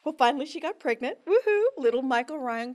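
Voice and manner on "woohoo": high, loud cheer of joy; excited whoop. Real, not acted. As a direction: whoop it out with delight. Celebrates sister's pregnancy.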